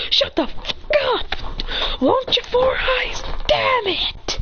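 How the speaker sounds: high, drawn-out acted tirade; angry retort. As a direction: lash back at a scolder, very high.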